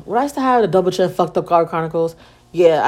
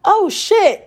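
child imitation; 13 semitones higher, 3 dB louder than usual. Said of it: "she was like".

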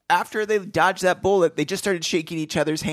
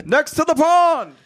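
high silly voice; 14 semitones higher, 5 dB louder, slower than usual. Acted. Acting a searcher, laughing.

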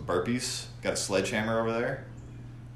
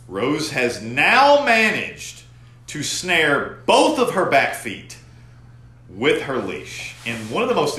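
mock announcer; 6 semitones higher, 6 dB louder, slower than usual. Mock-announcing dog's leash feat.

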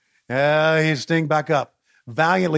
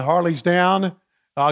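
normal talking voice

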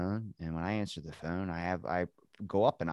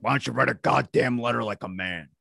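gruff grandpa; 3 semitones higher, 7 dB louder than usual. Retold or imitated. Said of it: "My grandpa's like".

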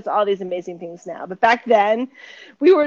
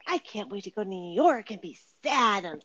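louder, gushing retold daydream; eager child dreamer; 2 semitones higher, 9 dB louder than usual. Five-year-old dreaming of acting after a movie, eager. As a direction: play up a kid's big dream. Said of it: "even as a five-year-old".

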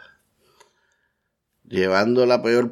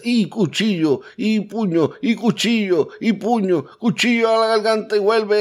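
excited call; 6 semitones higher than usual. Real, not acted. Rapid-fire blow-by-blow call.

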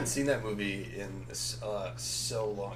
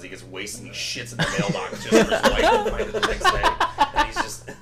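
laughing; 12 semitones higher, 8 dB louder than usual. Real, not acted. Laughing while telling the story.

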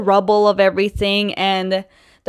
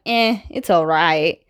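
slow, lower-pitched shrug; unimpressed; 4 semitones lower, slower than usual. Retold or imitated. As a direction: brush it off, dragging it out. Acting Toph unimpressed by it.

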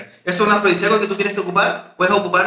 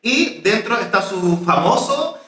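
presenter voice. Acted. Presenting sponsor gift.

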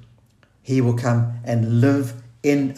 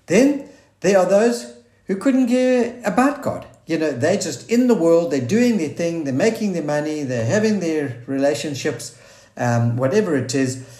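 raised preaching; 3 semitones higher than usual. Real, not acted. Preaching rises on those who don't care.

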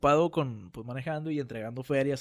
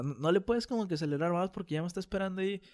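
higher-pitched mock pleading; pushy girl passenger; 6 semitones higher than usual. Girl urging the bus driver because dad waits, imitated impatience. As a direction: pitch it up like a passenger pressing for speed. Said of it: "la chava le decía así como que".

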